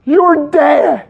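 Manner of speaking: a high, drawn-out dude voice; movie character voice. Retold or imitated. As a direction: play the surfer dude telling Nemo the news. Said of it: "he goes".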